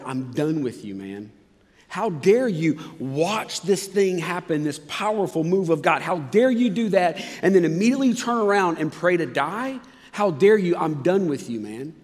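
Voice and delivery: mock scolding. Hypothetical angry God voiced.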